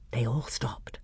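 hushed whisper. A narrator's reading. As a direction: breathe it out in a whisper. Tense hush in the woods.

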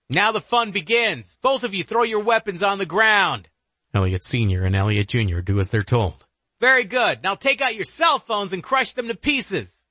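high, eerie villain voice; dark whisper behind you. Acted. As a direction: command them with cruel amusement. Killer gives orders.

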